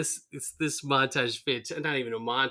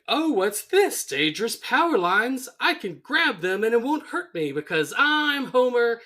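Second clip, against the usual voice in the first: high, loud mock bravado; crazed sing-song derision; manic Frank Grimes; 9 semitones higher, 5 dB louder than usual. Frank imitating Homer before grabbing power lines, manic. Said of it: "he's like".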